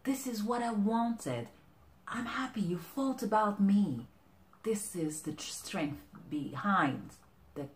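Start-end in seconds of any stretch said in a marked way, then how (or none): 0.0-4.1 touched delight. Acted. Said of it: "Her face said".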